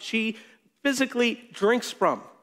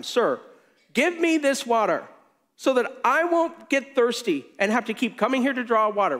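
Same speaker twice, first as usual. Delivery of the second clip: mock-eager, pitched higher on give me; sarcastic request; 4 semitones higher than usual. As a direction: play along with a sarcastic sneer. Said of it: "again, I think with sarcasm".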